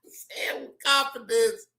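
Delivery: breathy laughing whisper; soft unvoiced giggle line. Real, not acted. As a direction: whisper it, barely holding in a laugh.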